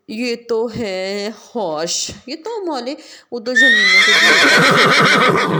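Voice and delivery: put-on loud, excited little girl; child thrilled to see the horse. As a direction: blurt it out loudly.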